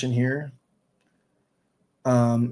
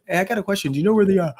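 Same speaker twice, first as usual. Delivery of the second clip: faking tiredness; 7 semitones higher, much faster than usual. Retold or imitated. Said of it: "Just fake yawn".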